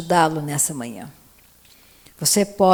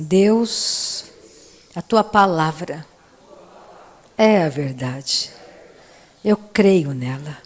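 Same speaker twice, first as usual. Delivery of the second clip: slow prayer in short phrases with long pauses; repeat-after-me prayer. Acted. Preacher leading newcomers through a prayer, slow repeat-after-me prayer. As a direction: lead them line by line, drawing out key words.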